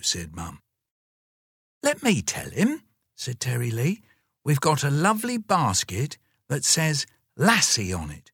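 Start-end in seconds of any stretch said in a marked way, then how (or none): 1.8-8.3 put-on high, proud small child; much higher child voice; little girl. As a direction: say your age like a five-year-old.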